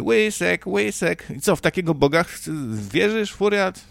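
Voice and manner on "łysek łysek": put-on childish taunt. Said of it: "bo się śmiały".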